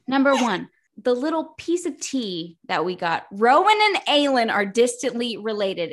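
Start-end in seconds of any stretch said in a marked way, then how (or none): 3.3-5.9 "Rowan and Aelin are distantly related" punched out; all-caps emphasis. Acted. Podcaster revealing the tea, all-caps emphasis. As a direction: hit "Rowan and Aelin" like capital letters. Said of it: "in all caps".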